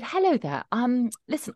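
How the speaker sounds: high, polite phone-call opener; put-on phone politeness. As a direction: re-enact a careful, high-pitched caller. Acts out her call to venue.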